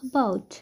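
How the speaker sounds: about with a light, short "uh" first; unstressed soft schwa. Shown as a demonstration. Teacher showing an unstressed syllable, soft first vowel in about. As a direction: barely voice the A in about, landing on "bout". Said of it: "ये sound very soft अ होता है".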